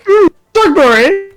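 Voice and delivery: posh aristocrat voice. Retold or imitated. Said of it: "I imagined".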